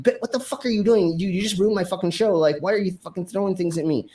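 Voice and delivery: high, fast retold tirade; indignant confrontation. Performer chasing the glass thrower outside, indignant. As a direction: act out an outraged demand for answers.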